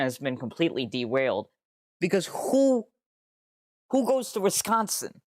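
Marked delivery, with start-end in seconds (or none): 2.0-5.2 much higher, louder disbelieving cry; incredulous squeal. Real, not acted. Streamer derailed by Wisconsin, squealing in disbelief. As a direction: squeal it out, utterly baffled.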